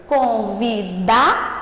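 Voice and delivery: "Convidado" silabado devagar, força no "da"; sílaba tônica destacada. Shown as a demonstration. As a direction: diga "Convidado" como con-vi-DA-do, com pausas. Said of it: "ele ficou mais forte a partir do momento que eu pronunciei". ("Convidado" pausado, sílaba "da" mais forte)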